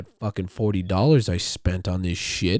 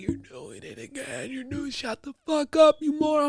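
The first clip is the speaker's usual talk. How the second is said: sister's voice. Retold or imitated. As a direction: scold him like an annoyed sister. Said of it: "she's like".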